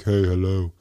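loud, badly faked celebrity greeting; The Rock. Host retelling a surprise greeting, attempted impression. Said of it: "I can't do The Rock impression".

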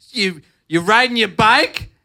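high, slow, building to a loud mock shout; outraged old lady. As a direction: imitate a scandalised woman, climbing to a yell. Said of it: "this lady said".

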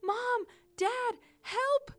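high, loud calls for parents; yelling for help. Acted. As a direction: cry out like a lost child. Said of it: "she yelled".

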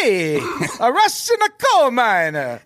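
high, hammed-up Italian accent. Podcaster turning his Russian miner Italian for laughs, exaggerated Italian accent. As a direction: stretch it into a cartoon Italian accent. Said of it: "that was a great Italian accent".

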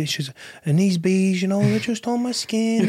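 badly faked American accent. Imitating the online beekeeper, bad American accent. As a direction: attempt an American accent that slips toward South Welsh. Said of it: "that's the worst American act".

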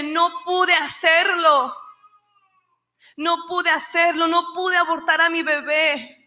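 a woman in tears at the clinic door; crying. Retold or imitated. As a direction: sob out the relief of not going through with it. Savannah runs out, unable to abort.

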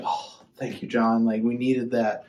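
soft, dry mock gratitude; sarcastic thanks. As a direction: thank him with deadpan sarcasm. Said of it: "they're like".

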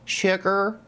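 lightly Southern, sweet-talking customer; a hint of a Southern lady saying sugar; North Florida woman. Imitating a North Florida woman customer, light Southern accent. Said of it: "get into the mindset of a North Florida woman".

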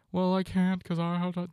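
mocking a complainer; high mock whine; whiny excuse voice. Imitating a listener's excuse, mocking whine.

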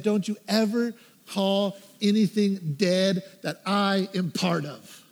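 slow, measured words from God; grave retold divine correction; solemn rebuke. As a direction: pronounce it deliberately, phrase by phrase. God's rebuke, retold slowly.

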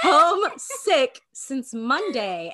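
slow words through a laugh. Real, not acted. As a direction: giggle out the words, slowly. Laughing at own slip.

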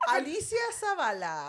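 mock Asian accent. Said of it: "¿por qué hablas como asiática?".

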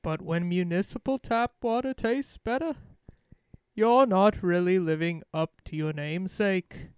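put-on mixed British accent. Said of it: "a whole different voice for that second little bit".

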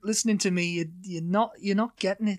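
Geordie that won't quite come; attempted Geordie accent. Shown as a demonstration. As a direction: have an uncertain go at Geordie.

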